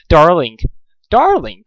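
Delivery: lightly voiced posh lady calling out; a hint of an affected drawling lady; flowery Rarity. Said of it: "the flowery voice of Rarity".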